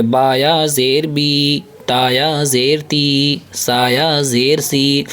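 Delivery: بی، تی، سی each held for one alif's length; slow spelled syllables. Shown as a demonstration. Teacher spelling syllables for children, slow and drawn out. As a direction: spell each letter out slowly, stretching the ی. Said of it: "ایک الف کے برابر کھینچیں گے".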